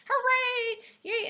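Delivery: high, drawn-out little cheer. Real, not acted. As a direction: stretch out a high-pitched hooray. Cheering that gifts are going out.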